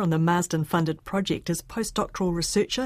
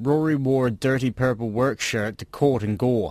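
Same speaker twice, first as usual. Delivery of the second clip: Rs after vowels strongly and clearly sounded throughout; 6 semitones lower than usual. Reading a sentence full of R sounds: strong postvocalic R. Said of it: "has a strong postvocalic R".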